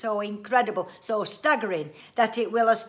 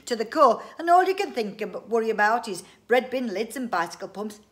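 loud, raised ranting; exasperated outburst; 3 semitones higher, 11 dB louder than usual. A narrator's reading. Inventor scolds family over trivialities, loud and exasperated. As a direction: rant grandly at their small-mindedness. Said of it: "cried Mister Winsborough".

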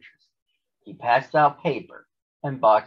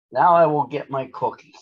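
louder, higher, pleased announcement; happy; 5 semitones higher, 6 dB louder than usual. A narrator's reading. Grover heading for his cookies after cleaning up, happy. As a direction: look forward to it happily, voice lifted. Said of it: "said Grover happily".

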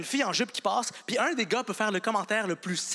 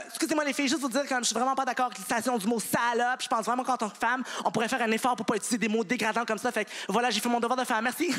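lightly raised woman's voice; 3 semitones higher than usual. Retold or imitated. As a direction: speak up politely in a put-on woman's voice. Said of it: "Je prends ma voix de femme".

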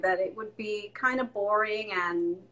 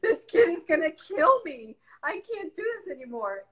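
high, loud, half-laughing wail, slowed; laughing mock despair; mock breakdown; 8 semitones higher, 5 dB louder than usual. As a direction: ham up a frazzled mom cracking. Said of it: "And I'm like".

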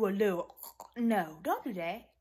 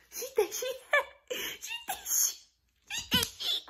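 very high squealing laugh; worked-up squeal. Real, not acted. Worked-up mocking, breaks into squeal.

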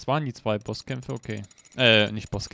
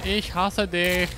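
higher, slow exaggerated hate; drawn-out hateful; 5 semitones higher, slower than usual. Real, not acted. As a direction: stretch each word in frustration. Hating the game enemy.

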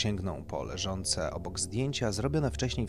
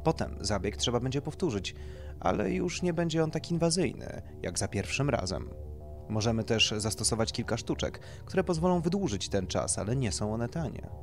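lightly voiced doctor, raised and emphatic; doctor explaining procedure; 4 semitones higher, 5 dB louder than usual. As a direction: explain it like a consultant to a client.

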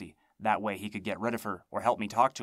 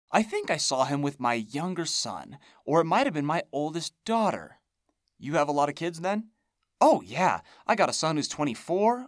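high, loud chattering crone; rambling hag voice; 6 semitones higher, 5 dB louder than usual. Acted. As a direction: ramble on like an old witch. Hag rambles then pain.

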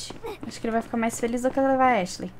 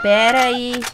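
urgent call; 9 dB louder, much slower than usual. Real, not acted. Urgent, telling Ashley to wait.

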